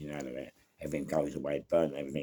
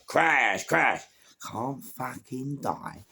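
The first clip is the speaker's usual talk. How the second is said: retold fury; mock angry snarl; 6 semitones higher, much slower than usual. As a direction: spit the words at him. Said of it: "I'm fuming".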